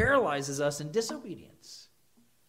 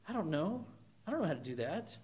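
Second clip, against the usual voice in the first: put-on whiny kid; 8 dB quieter, faster than usual. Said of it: "you know this in your kids".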